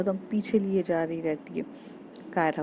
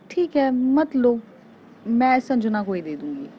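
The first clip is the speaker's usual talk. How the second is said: huffy retort; 5 semitones higher, 5 dB louder than usual. Acted. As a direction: fling it back at her, dragging the words. Teasing threat during quarrel. (रूठकर ऊँची आवाज़ में धमकी)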